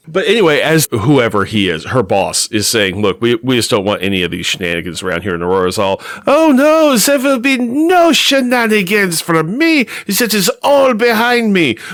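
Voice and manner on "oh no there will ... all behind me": put-on high-pitched, slow speech with German accent. Recapping a story, the speaker voices Aurora answering her boss in a German-sounding accent. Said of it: "when you do Aurora, she sounds very German".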